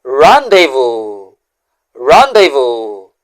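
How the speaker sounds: "Rendezvous" said slowly as rahn-day-voo, with a nasal first vowel and a silent z and s; "Rendezvous" drawn out slowly, French style, ending on an open "voo"; French pronunciation. Shown as a demonstration. Teacher slowly modeling "Rendezvous" for viewers, French pronunciation. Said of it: "let's pronounce the word this way".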